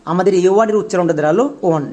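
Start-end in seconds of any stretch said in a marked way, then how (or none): 1.7-1.8 ওয়ান sounded out as "on", no w glide; mistaken "on" pronunciation. Shown as a demonstration. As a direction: say ওয়ান with a pure o vowel. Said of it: "একদমই ভুল".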